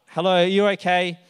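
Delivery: loud call to a stranger. Retold or imitated. Calling out to a lady lying on the footpath. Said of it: "so I start calling out".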